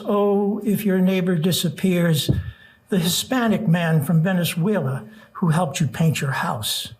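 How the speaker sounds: earnest rhythmic poem recital; nervous open mic poet. Acted. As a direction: build the refrain with urgency. Reads protest poem aloud.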